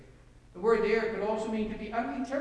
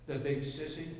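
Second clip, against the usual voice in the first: shaking little voice; 5 semitones lower, 5 dB quieter than usual. A narrator's reading. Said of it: "broken by a shaking voice, a little voice".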